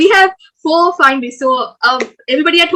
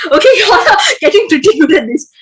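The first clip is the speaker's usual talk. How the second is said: loud, higher, laughing praise; real laughing; 4 semitones higher, 7 dB louder than usual. Real, not acted. Game host to players doing well, laughing and loud. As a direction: laugh through it while speaking up.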